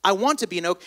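lightly voiced acorn, quiet and hesitant; a soft touch of awe and longing; wistful little acorn. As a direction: wish aloud, softly, as a small acorn. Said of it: "the little acorn began to say".

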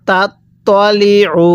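"তলি" with a heavy, rounded ত, drawn out; correct letter sounds. Shown as a demonstration. Teacher answers how to read it, slow "তলি" with heavy ত. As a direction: read "তাত তলি উ" slowly, keeping the ত of "তলি" dark. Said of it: "তাহলে কিভাবে পড়ব?".

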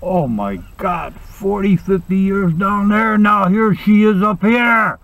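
slow, building comic dread; acted dismay. Husband sees nagging wife arriving in heaven.

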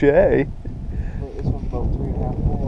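loud, eager estimate; excited loud. Real, not acted. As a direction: call the weight out eagerly. Excited guess at fish weight.

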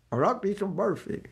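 a light put-on Scottish accent. Devotee in Scotland asking for Barfi, mild Scottish accent. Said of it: "difficult to understand Scottish accent".

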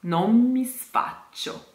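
"non mi sfaccio" with "non mi" run together; linked non mi. Shown as a demonstration. Diction coach joins "non mi" in "non mi sfaccio". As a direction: blend "non mi" into one word. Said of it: "becomes just one word".

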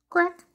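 elbow crack sound. Shown as a demonstration. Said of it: "Elbow sound".

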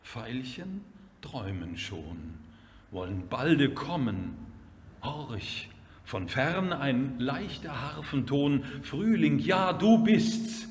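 hushed opening building to a ringing greeting; poem recitation. Acted. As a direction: recite measured lines, lifting on the discovery of spring.

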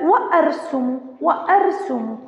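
"وأرسم" with a clear glottal stop after wa; pronounced cutting hamza. Shown as a demonstration. Teacher demonstrating hamza after waw, audible catch in "وأرسم". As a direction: sound the hamza in "وأرسم" as wa-arsumu. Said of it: "الحالتين تلفظ".

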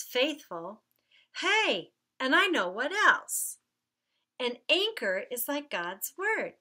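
lively storybook reading with light character voices; reading a story to children. Acted. Children's minister reading the Mark story aloud, lively storybook voice. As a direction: read it like story time for little ones.

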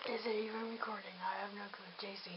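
hushed whisper. Real, not acted. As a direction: whisper it so mom won't hear. Hiding from mom, whispering.

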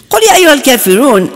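rushed recitation. Retold or imitated. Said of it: "I remember him starting to read".

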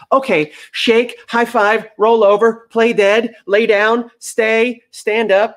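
an overeager dog firing off every trick it knows; eager dog rattling off tricks. Pretend. Dog showing off every trick to its trainer, excited and high.

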